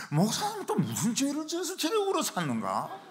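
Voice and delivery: high-pitched imitation of suspicious elders; gossiping church elders. Church elders wondering about their crying pastor, high-pitched mock suspicion. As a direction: mimic tut-tutting congregants up high.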